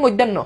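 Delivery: মধ্যাহ্ন said as "moiddenno", first syllable slurred; common mispronunciation. Shown as a demonstration. Teacher shows students how people usually say the letter's name, colloquial mispronunciation. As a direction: say মধ্যাহ্ন colloquially, as "moid-den-no". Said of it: "আমরা উচ্চারণ, আমরা এগুলোর বলি".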